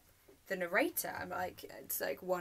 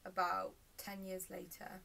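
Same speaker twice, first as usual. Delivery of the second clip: understated dramatic storytelling; naturalistic monologue. Acted. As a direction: recount it naturally, with weighted pauses.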